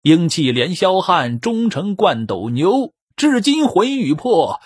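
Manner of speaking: slow, measured verse reading; storyteller chanting the tribute poem slowly; poem recitation. A narrator's reading. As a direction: intone each line like a classical poem.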